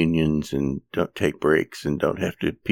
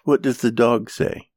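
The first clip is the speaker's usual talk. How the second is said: put-on higher singsong question for a little kid; reading to a toddler; 7 semitones higher than usual. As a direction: quiz a toddler on animal sounds. Children's book animal sounds.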